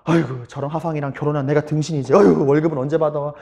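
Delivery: low grumbling lament; nagging wife. Retold or imitated. Wife complaining about her unpaid husband, nagging. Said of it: "아내는 바가지만 긁어요".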